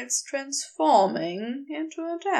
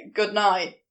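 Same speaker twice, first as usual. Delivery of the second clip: blurted good night; 4 semitones lower, 4 dB louder than usual. Acted. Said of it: "he blurted out".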